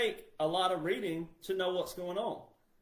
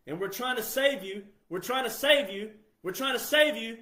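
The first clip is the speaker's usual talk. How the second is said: from firm to louder pleading; building plea; 6 semitones higher, 6 dB louder than usual. Real, not acted. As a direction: repeat it louder each time. Pleading, repeating louder each time.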